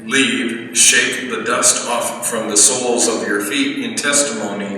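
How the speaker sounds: measured, solemn reading of scripture; gospel reading. Acted. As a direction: read the gospel slowly to the congregation.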